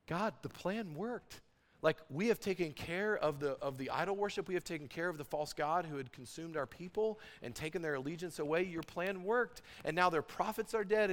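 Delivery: pleased, wondering report to God; mildly pumped. Acted. Elijah telling God the plan worked, understated elation. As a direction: let relieved triumph build lightly. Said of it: "Elijah's pumped".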